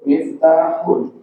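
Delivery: "Miftahun" with a crisp h; student retrying the h; clearer h. Shown as a demonstration. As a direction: sharpen the h in "Miftahun". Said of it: "Huruf H diperjelas".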